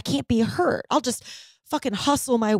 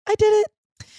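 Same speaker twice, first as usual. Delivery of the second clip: high, loud burst of triumph; triumphant; 10 semitones higher, 6 dB louder than usual. Real, not acted. Client celebrating the finished ceremony, triumphant. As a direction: cheer your own win.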